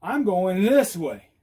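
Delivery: slow, drawn-out announcement; deliberate, spelled-out signal; demonstrating with movement. Shown as a demonstration. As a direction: stretch out I'M GOING THIS WAY for onlookers. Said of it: "Oh, it's movement".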